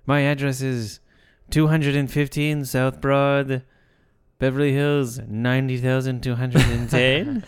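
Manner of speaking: slow "ninety thousand two hundred and ten", lifting on "ten"; zip read as number. Acted. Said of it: "as if they were actual numbers".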